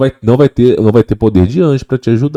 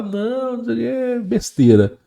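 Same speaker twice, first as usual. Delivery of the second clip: dismissive homeowner; 10 semitones higher, 7 dB quieter than usual. Retold or imitated. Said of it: "Aí você vai falar".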